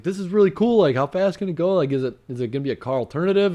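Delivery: high, excited questions; lightly voiced eager shopper; eager customer voice. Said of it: "I was like".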